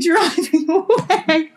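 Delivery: high, laughing words that fade off; crazy neighbor cackling as she drives away; cackling witch. Retold or imitated. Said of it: "fading off like a witch".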